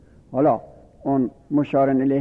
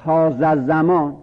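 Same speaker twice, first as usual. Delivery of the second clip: slow example; 4 dB louder, slower than usual. Shown as a demonstration. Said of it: "مثلاً".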